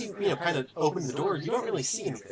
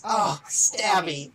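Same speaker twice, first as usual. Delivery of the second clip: tender reunion; 6 semitones higher, 3 dB louder, much slower than usual. A narrator's reading. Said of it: "cradles this knife like a child".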